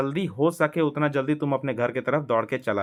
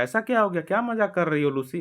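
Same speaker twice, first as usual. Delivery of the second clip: Susan teasing; 5 semitones higher, faster than usual. Acted. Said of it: "said Susan".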